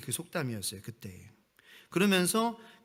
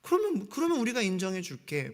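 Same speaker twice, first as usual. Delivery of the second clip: condescending taunt; 5 semitones higher than usual. Retold or imitated. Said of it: "뭐, 이런 식으로".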